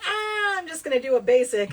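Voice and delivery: mock nonchalance. Explaining accent jobs, imitating a breezy shrug. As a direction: toss it off as no big deal. Acting out casual attitude to accents.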